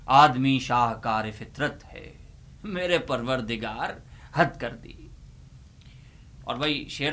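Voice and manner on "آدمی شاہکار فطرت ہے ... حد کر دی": serious reflective recital. Shown as a demonstration. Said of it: "انتہائی سنجیدہ شعر".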